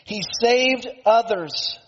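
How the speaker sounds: acted sneer at a helpless man; mocking. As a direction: draw it out as a scornful jibe. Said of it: "they mocked Jesus".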